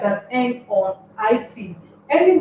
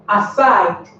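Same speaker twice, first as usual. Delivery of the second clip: "aside" stressed on "side"; stress on last syllable. Shown as a demonstration. Teacher giving an example preposition, last-syllable stress on "aside". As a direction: lean on the second half of "aside". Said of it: "must be stressed at the last".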